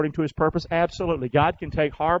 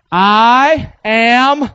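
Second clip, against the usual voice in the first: loud congregational call; 4 semitones higher, 9 dB louder than usual. Shown as a demonstration. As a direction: shout I am together, loud and higher. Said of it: "say this with me real loud".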